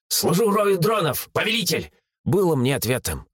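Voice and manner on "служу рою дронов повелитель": joyful drone. Acted. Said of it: "Дрон запищал радостно".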